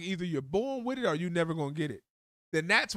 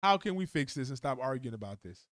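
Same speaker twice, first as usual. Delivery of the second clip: soothing spouse; 3 semitones lower than usual. Retold or imitated. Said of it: "You say".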